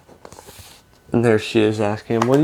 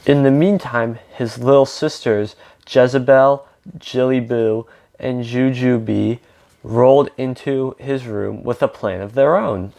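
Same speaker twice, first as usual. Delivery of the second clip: lively read-aloud with lightly acted dialogue; storybook reading with emphatic openings; picture-book narration. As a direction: read a story to children, animated.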